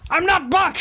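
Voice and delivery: sudden high indignant yell; indignant outburst. Acted. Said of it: "and Buck's like".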